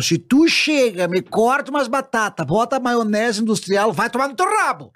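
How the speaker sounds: hammed-up scolding about proper mayonnaise; indignant gaúcho rant. Gaúcho griping about store-bought mayonnaise, indignant. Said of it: "o Gaudêncio critica muito".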